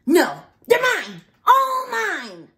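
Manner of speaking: high, loud possessive scream. A narrator's reading. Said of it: "screamed the grouchy ladybug".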